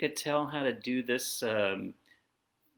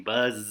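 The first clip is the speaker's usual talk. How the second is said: bee buzz; 2 semitones lower than usual. Acted. Reader shows kids a bee, buzzing. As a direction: buzz with a held zzz. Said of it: "He can sound like a bee".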